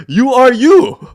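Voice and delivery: high, loud and slow insistence; drawn-out exasperated shout; emphatic exasperation. Real, not acted. Exasperated, hammering the point home.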